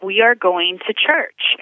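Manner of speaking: slow, deliberate "We are going to church"; firm insistence. Retold or imitated. Boyfriend insisting to his anxious girlfriend, slow and firm. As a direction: spell out "We are going to church" slowly and firmly.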